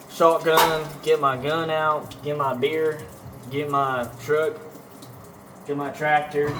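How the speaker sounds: lightly put-on Texan country accent; a hint of hammed-up Texas twang; mock Texan. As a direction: play a gun-and-truck Texan stereotype. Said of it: "my Texan is coming out".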